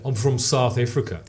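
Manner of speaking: South African accent demo. Shown as a demonstration. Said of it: "people always get wrong with the accent".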